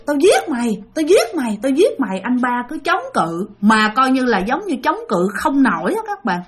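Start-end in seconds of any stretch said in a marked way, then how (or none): 0.1-2.2 raised-pitch mock death threat; retold cursing threat. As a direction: curse as if possessed, with restraint. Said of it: "cứ chửi".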